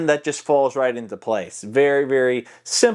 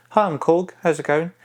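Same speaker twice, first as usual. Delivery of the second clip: Korg; 3 semitones higher than usual. Shown as a demonstration. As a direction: voice it high and at the front. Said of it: "how we voice Korg".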